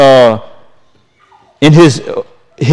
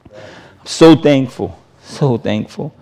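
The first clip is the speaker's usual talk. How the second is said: hushed thanks; 2 semitones lower, 5 dB quieter, slower than usual. Real, not acted. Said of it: "quiet personal gratitude".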